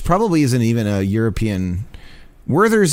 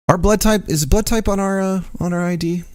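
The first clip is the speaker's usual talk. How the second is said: mock shock; 8 semitones higher than usual. Mock outraged cop conspiracy.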